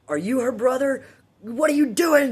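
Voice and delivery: high, loud scolding; scolding nurse. Retold or imitated. Nurse scolding the careless brother, high loud rebuke. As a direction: tell him off like a stern nurse. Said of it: "looks over at Ray and goes".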